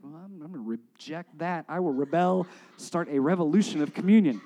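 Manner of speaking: loud mock rebel outburst; mock defiance. Mimics defiant congregant rebelling.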